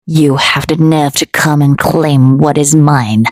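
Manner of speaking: low, menacing fury; dark and furious. A narrator's reading. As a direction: growl it out darkly. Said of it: "his voice dark and furious".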